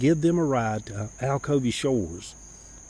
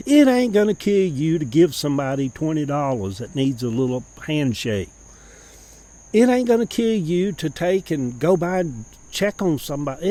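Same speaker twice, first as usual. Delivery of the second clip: preaching mama; 3 semitones higher, 5 dB louder than usual. Retold or imitated. Mama's preaching take-over.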